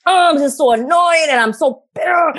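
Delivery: playfully acting out her own fit of anger; retold tantrum. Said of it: "I threw a tantrum".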